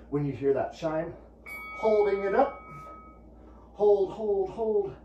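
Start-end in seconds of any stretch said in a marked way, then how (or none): 1.8-4.9 high, loud calls to hold; loud coaching call. Real, not acted. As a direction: push the class to hold it.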